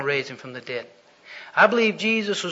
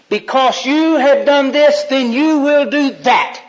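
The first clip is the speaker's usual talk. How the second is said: stern God; 7 semitones higher, 6 dB louder, slower than usual. Acted. God pronounces punishment.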